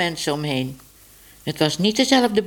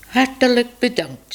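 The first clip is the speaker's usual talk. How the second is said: higher sweet thanks; 7 semitones higher, 3 dB louder than usual. Acted. Minoes thanks the herring man.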